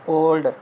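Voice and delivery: "ओल्ड" said in one single beat; one-syllable demo. Shown as a demonstration. Teacher showing students a single syllable, "ओल्ड" read in one go. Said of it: "इसको आपने एक ही बार में पढ़ लिया".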